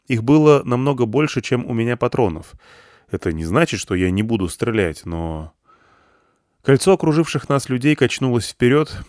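usual speaking voice

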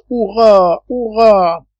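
high, drawn-out hurrahs; exclaimed cheer. A narrator's reading. Pencroff celebrates the apes' rout, high exclaimed cheer. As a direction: keep cheering, pitched right up. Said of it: "s'écria Pencroff".

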